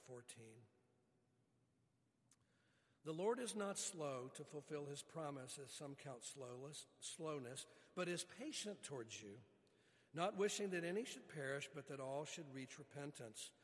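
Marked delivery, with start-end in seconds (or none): 3.1-13.5 rising into a louder, forceful scripture reading. Acted. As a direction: read the passage with building force. Reads scripture passage.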